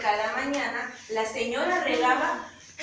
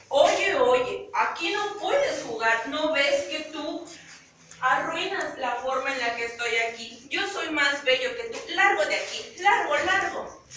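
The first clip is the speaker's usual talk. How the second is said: mild angry shout, higher; a haughty tree chasing the bird off; 4 semitones higher than usual. Acted. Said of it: "muy enojado".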